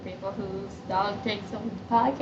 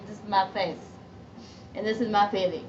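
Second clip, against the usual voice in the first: ordinary delivery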